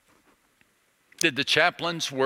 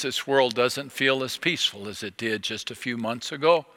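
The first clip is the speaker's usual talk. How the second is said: ordinary talk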